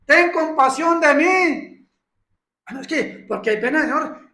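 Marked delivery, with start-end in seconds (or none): 0.0-1.9 loud, slow plea for mercy; slow, imploring beggar's cry; pleading cry. Retold or imitated. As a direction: call out to the Lord, drawn out. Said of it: "como aquellos que decían".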